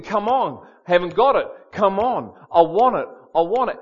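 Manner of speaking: urgent, punchy acted prayer; insistent pleading. Man re-enacts badgering God in prayer, insistent and punchy. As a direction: keep pressing in short bursts.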